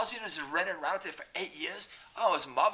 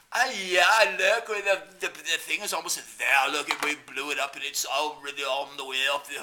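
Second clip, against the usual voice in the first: mock posh British voice; 4 dB louder than usual. Mocking British officials.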